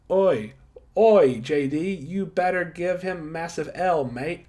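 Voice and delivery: put-on clumsy Australian accent, shouted out; bad Australian accent. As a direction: ham up a mock Aussie "oi, mate" call. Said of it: "I can't do an Australian accent".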